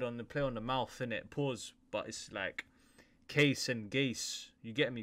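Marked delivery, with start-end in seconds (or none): 3.3-4.5 "case and Gays" said very slowly to show the pun; wordplay slowed. Shown as a demonstration. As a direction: stretch out "case and Gays" to land the joke. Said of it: "a play on the word".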